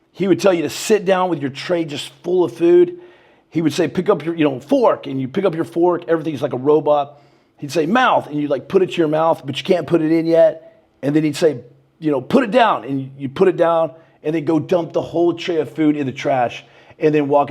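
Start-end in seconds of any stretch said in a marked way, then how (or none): 3.9-5.1 drill command. Retold or imitated. Drill instructor barking chow commands. 7.9-8.3 drill command. Retold or imitated. Drill instructor barking chow commands. 12.2-12.8 drill command. Retold or imitated. Drill instructor barking chow commands.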